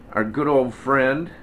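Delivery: slow, sarcastic emphasis; mock-friendly, drawn out. Real, not acted. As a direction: say it with pointed sarcasm. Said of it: "I use that word sarcastically".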